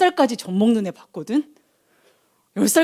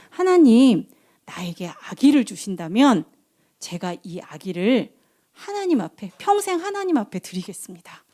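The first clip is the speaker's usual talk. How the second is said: tag. Acted. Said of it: "기도하면서 뭐라고 기도했냐면".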